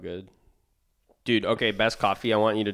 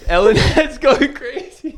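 hyped fan voice; 9 dB louder, slower than usual. Pretend. Joking about crazed Ellen fans.

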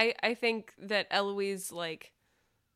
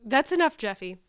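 firm cutoff; 5 dB louder than usual. Acted. Eloise cuts him off.

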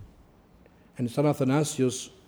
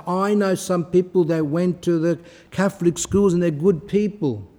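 imitated objector; 4 semitones higher, 3 dB louder than usual. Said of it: "Now, you might say".

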